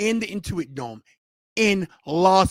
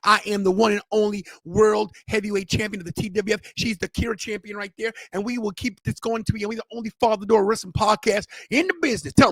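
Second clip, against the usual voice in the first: put-on podcast sign-off patter in a country accent; host's show voice; 4 dB louder than usual. Host signing off the wrestling podcast, put-on show voice. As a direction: roll out the titles like a wrestling host. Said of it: "I'm gonna do my voice too".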